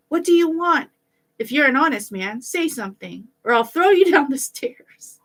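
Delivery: high, loud threat; shouting. A narrator's reading. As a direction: yell it down the stairwell. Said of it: "The boy shouted a second time".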